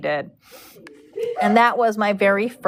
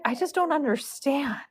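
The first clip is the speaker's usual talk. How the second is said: soft, higher imitation of bewilderment; bewildered; 4 semitones higher, 6 dB quieter than usual. Stressed horse owner to her braider, bewildered. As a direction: quote her small, baffled voice.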